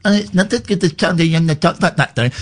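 fast, sneering imitation of critics; mocking quote. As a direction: mimic the whiners, quickly and snidely. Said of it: "Everyone went".

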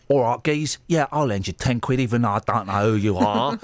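lightly put-on geezer voice; J-Dog impression. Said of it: "My impression of the J-Dog".

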